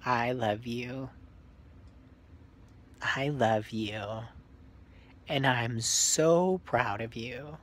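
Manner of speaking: put-on speaking as a mother telling her child she's proud; tender mom voice. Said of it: "We're gonna pretend like I'm your mom".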